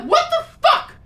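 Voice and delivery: high, loud, laughing outburst; hammed-up furious yell at the movie; mock outrage. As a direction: blow up at the screen half-laughing. Mock outburst at Orko's ending.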